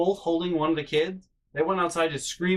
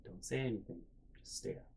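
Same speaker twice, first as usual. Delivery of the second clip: much softer, near-silent warning; hushed aside; 15 dB quieter than usual. Retold or imitated. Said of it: "stare at each other like".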